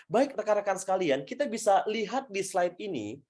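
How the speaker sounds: lightly played presenter addressing an audience; demonstration presenter. Shown as a demonstration. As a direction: play with intonation, lifting key words. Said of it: "Sehingga saya bisa ngomong begini".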